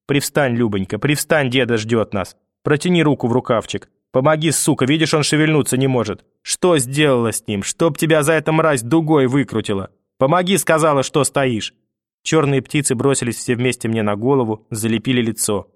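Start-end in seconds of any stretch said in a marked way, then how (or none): 0.1-11.7 lightly voiced grandmother, coaxing then harsh; grandmother's voice. Grandmother coaxes the boy and snaps at the mother, lightly voiced. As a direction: coax the boy, snap at mother. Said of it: "говорили бабушкиным голосом".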